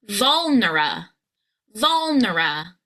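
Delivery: "vulnera" with long stressed VUL and a lazy final uh; first three syllables. Shown as a demonstration. Coach builds the word, stretching the first syllable. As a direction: hold VUL, relax the end of "vulnera". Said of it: "the third syllable is this, just the schwa".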